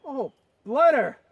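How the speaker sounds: put-on English officer cursing loudly, English accent; angry English accent. Skit officer spotting the natives, angry English accent. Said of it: "break into an English accent".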